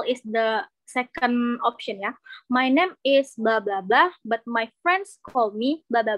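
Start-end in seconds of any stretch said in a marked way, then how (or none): 2.5-6.2 slow model sentence. Shown as a demonstration. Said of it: "For example".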